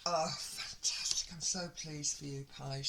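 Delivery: pleased, breathy whisper; delighted hushed whisper. Real, not acted. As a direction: whisper the good news happily. Excited by cards, hushed.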